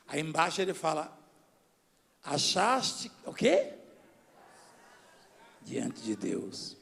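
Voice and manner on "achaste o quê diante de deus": very slow, stretched syllables; slow prompting. Real, not acted. Pastor quizzes church on the verse, slow prompting. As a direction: draw it out, leaving room for answers. Slow call-and-response with congregation.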